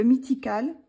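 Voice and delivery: English title in a French accent. Real, not acted. Showing a colouring book's English title, French-accented English. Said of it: "avec mon accent anglais fantastique".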